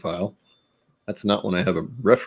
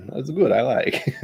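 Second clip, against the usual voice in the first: quick Russian-accented "That's good. I like."; tossed-off fake Russian accent; playful Russian accent; mock Russian accent; 5 semitones higher than usual. Shown as a demonstration. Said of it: "I have to say it in that way".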